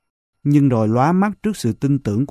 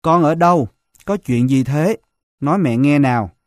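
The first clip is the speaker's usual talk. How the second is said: shouting into phone; 2 semitones higher than usual. Acted. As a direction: yell down the phone in panic. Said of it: "Vợ tôi gào lên trong máy".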